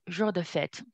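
"fête" as one syllable ending on t; teacher's model of "fête", no vowel after the t; corrected pronunciation. Shown as a demonstration. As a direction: model "fête" with its final e silent. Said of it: "The pronunciation I corrected a little bit".

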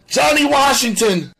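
loud, high-pitched terrified shout; fearful cry. A narrator's reading. Suspect naming the man to police, fearful cry. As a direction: cry out the full name in fright. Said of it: "Sam's voice was etched with fear".

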